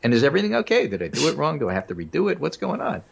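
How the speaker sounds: high-pitched anxious questioning, acted out; mock worry. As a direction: retell it as a fretting caller. Retelling worried questions to the clerk.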